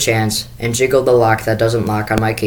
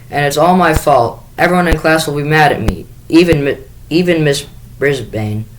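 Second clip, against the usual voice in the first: distraught; 5 semitones higher than usual. Acted. Sophie upset, blaming herself.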